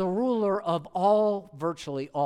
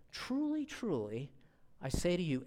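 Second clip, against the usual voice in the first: softer, quiet solemn words; lower tone; 6 dB quieter than usual. Shown as a demonstration. Jesus answering the crowd, soft and solemn. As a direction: say it quietly, with gravity. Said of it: "in a little bit lower tone of voice".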